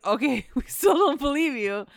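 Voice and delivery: high, loud words through a laugh; laughing mock disbelief. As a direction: laugh while refusing to believe. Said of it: "And then they're like".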